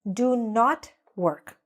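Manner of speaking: each word spaced out slowly; slow clear model. Shown as a demonstration. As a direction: lay out every word for learners. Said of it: "or we would say".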